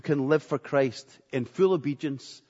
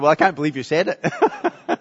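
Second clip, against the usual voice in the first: laughing retort; 4 dB louder than usual. Retold or imitated. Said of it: "I said".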